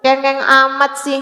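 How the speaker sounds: a hint of an impatient parent scolding a crying child; sharp mock scold, high on the first words. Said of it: "kita jangan bilang". (nada orang tua yang mengomeli anak menangis)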